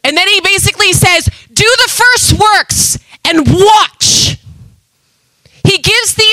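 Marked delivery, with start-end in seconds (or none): 1.5-4.4 command. Acted. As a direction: call it out like a divine order. Preacher voicing God's command.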